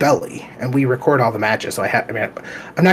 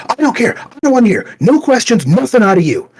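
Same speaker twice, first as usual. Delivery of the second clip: imitating a screaming teen, higher and louder; teen worker screaming at a dad, mock furious; 9 semitones higher, 4 dB louder than usual. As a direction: shut him down, yelling. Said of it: "just screaming at me".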